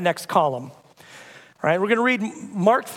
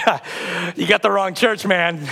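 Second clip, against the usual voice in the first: light chuckle into a casual brush-off; giggling retort; slower than usual. Retold or imitated. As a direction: laugh it off, amused. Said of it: "And I kinda giggled".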